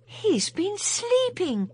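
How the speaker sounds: a sigh of relief in the words; relieved. A narrator's reading.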